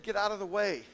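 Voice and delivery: God's command. Acted. Preacher voicing God telling Moses to move, loud command. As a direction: bark the order like an angry God.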